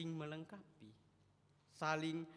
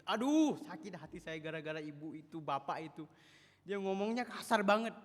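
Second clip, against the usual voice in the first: mildly louder bitter complaining; a hint of hurt churchgoer; 5 semitones higher, 9 dB louder than usual. A bit of a bitter member quitting church ministry, complaining. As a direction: grumble like someone hurt who quits serving. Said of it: "Perselisihan ini akhirnya membuat".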